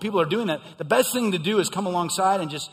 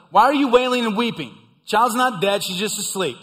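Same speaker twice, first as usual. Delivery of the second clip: blunt Jesus; 5 semitones higher, 6 dB louder than usual. Retold or imitated. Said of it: "He's like".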